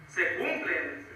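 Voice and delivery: a hushed, drawn-out echo of the last words; slow soft echo. Real, not acted. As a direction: repeat it slowly and softly, letting it sink in.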